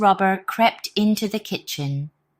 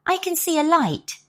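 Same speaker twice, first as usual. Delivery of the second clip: excited rooster; 12 semitones higher than usual. Acted. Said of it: "crowed the rooster".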